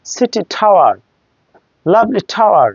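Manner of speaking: টাওয়ার each time with T like ঠ; breath on the T of টাওয়ার; aspirated T. Shown as a demonstration. Teacher giving examples, aspirated টাওয়ার. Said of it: "টাওয়ার উচ্চারণ হবে".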